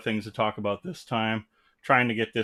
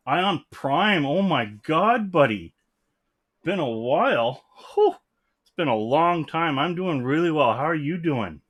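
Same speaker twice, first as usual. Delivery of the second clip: excited greeting; 5 semitones higher, 5 dB louder than usual. Real, not acted. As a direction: greet a long-lost buddy with real delight. Greeting an old friend.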